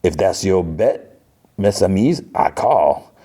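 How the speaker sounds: slow card-player's challenge; lightly voiced, measured bravado; Gambit. Gambit answering the X-Men's threat, slow cool challenge. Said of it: "Gambit's like".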